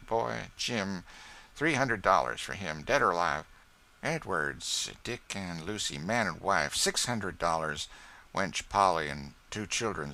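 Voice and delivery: mumbled list, deliberate; lawyer reading a ledger. Acted. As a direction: read the bounties off coolly. Marks reading his list.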